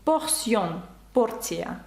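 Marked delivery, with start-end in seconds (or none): 0.1-0.7 "Portion" with an S sound for the T; French "Portion", S in the middle; T read as S. Shown as a demonstration. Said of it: "Т також може передавати звук С".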